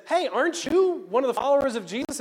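high, loud challenge; loud accuser. Acted. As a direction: call him out with a pointed question. Second accuser challenges Peter loudly.

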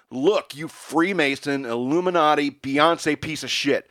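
loud, slow, high shout; shouted insult. Retold or imitated. Standing up at the party, yelling at Ben Franklin. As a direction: bellow the insult across the party. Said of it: "I shouted at him".

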